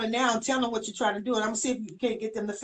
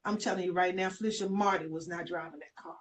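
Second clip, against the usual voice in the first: soft, low, confiding; hushed retelling; 4 semitones lower, 8 dB quieter than usual. Retold or imitated. Father confiding to grandmother about the car, soft and low. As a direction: tell it quietly like a secret in her ear. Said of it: "whispered in my ear".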